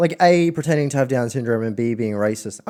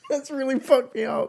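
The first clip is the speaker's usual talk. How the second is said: laughing; 13 semitones higher, 3 dB quieter than usual. Real, not acted. Laughing, high.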